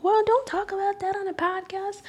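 high, prissy mock scold from an imagined listener; a shocked podcast listener tutting at her; judgmental listener. Imagined listener scolding her for oversharing, mock prissy voice. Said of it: "and you might be like".

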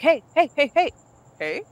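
retold call to a distracted date; mock attention-grabbing call. Calling out date's wandering eyes.

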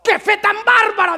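loud, high exclaimed wonder; amazed shout. Retold or imitated. Jesus marvels aloud at the woman's faith, shouting. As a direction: shout in awe at her faith. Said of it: "Y Jesús dice".

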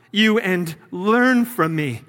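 learn slowed and leaned on; stress on learn. Shown as a demonstration. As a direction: give the word learn slow weight. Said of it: "Here I'm emphasizing the word learn".

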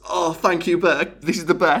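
hammed-up refreshed relief; grateful relief. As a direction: act out thanking a saviour, pitch lifted. Acting out thanks to the bear.

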